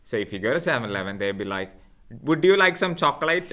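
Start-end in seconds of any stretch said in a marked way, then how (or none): 2.2-3.5 put-on South Asian shopkeeper accent, higher; mock-imitate a shop worker's Indian accent; imitowany akcent indyjski. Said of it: "With the accents, man".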